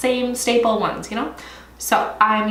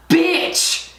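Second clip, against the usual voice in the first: higher-pitched, appalled exclamation; shocked outburst; 8 semitones higher than usual. Real, not acted. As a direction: exclaim it in disbelief at the price. Outrage at the palette's price.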